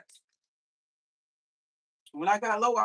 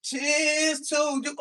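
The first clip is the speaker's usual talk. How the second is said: loud toast; 3 semitones higher, much slower than usual. Shown as a demonstration. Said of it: "One more again".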